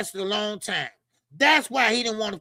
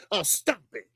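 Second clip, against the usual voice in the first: a hint of Blue Blood's lower voice; Blue Blood impression; 4 semitones lower, 4 dB quieter than usual. Commentator mimics Blue Blood telling someone to quit, lightly lowered voice. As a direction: lightly imitate him, pitched down. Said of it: "In, the, in my blue blood, uh, uh, uh, uh, voice".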